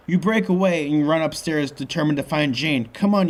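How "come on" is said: calling out. A narrator's reading. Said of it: "you call Michael".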